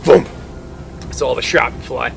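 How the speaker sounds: ordinary delivery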